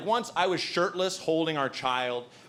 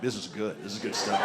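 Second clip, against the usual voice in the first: put-on baby soaking it up; 6 semitones lower, 4 dB quieter than usual. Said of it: "soaking it up like".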